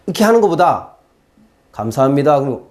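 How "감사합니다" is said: lower, controlled mock thanks; ironically polite mother. Mother thanking troublemaking son instead of scolding, ironically polite. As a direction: say thanks while meaning the opposite. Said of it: "엄마의 마음을 반대로 표현한다".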